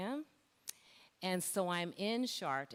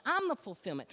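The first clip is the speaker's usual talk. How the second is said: loud, raised-pitch declaration; emphatic divine correction; 6 semitones higher, 5 dB louder, faster than usual. Retold or imitated. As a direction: assert it forcefully as God would. God's correction of false belief.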